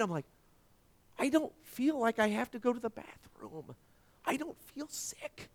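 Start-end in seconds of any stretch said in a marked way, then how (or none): 1.2-5.5 soft, high, tearful-sounding amazement; hushed wonder. Retold or imitated. Sick man finds he is healed, hushed wonder. Retelling tearful moment of sudden healing.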